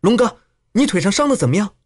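high, quick anxious question; wife worrying over her hurt husband; deeply concerned. A narrator's reading. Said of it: "语意之间极是关切".

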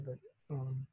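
speaking through heartburn discomfort; strained, uncomfortable from heartburn. Real, not acted. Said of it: "sorry, I got some heart, um, heartburn".

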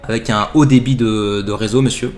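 a lightly voiced call-centre agent, polite and insistent; mock telemarketer, lightly put on; pushy telemarketer. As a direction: sell it like a cheesy phone salesman. Telemarketer pitching box.

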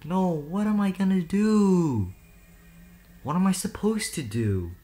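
slow, high, pleading panic; desperate and scared; panicked. Real, not acted. Panicking in horror game.

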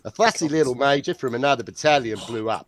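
put-on Australian accent, briskly read; quick Australian-accented anecdote. Rival reading of a soldier's quote in an Australian accent. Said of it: "whose Australian accent is better".

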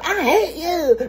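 mock a spouse's tantrum half-laughing; laughing mock yell. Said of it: "the first thing they yell".

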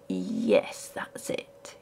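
hushed, almost whispered yes; quietly. A narrator's reading. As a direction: barely breathe the answer. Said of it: "he said quietly".

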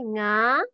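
nga, ng as in sing, then an open a; teacher's model syllable. Shown as a demonstration. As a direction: nga said as one nasal onset and ah. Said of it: "The first one, N G A".

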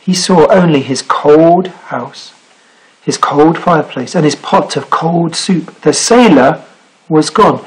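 measured read-aloud with deliberate pauses; story narration. Acted. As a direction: tell it to children, phrase by phrase. Reads picture book aloud.

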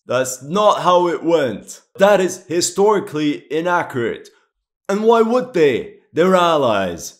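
fed up with the inaccuracy; indignant objection. Real, not acted. Historian correcting the game, indignant protest.

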